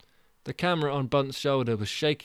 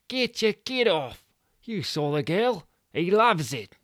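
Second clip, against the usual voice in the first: higher, louder urging; Stu insisting; 8 semitones higher, 4 dB louder than usual. Acted. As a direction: push him on frantically.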